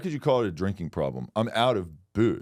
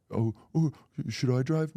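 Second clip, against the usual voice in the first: mock girly voice; 6 semitones higher than usual. Mimicking woman asking.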